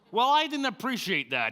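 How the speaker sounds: loud, high-pitched indignant retort; ticked off. Retold or imitated. Stuck dad reacts to his son's advice, ticked off. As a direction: retell it as an affronted outburst. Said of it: "I was ticked off".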